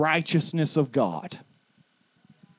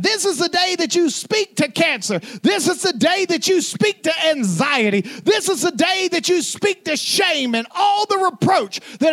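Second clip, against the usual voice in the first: high, loud, shouted preaching climax; preaching at full force; 12 semitones higher, 4 dB louder than usual. Acted. Pastor rallying the congregation against every giant, shouting in triumph. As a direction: declare it like a fiery preacher.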